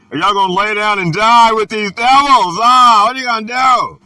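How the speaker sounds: fiery fast call to arms; rising preacher shout. Real, not acted. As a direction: build it into a fast, loud, high challenge. Preaching call to fight devils.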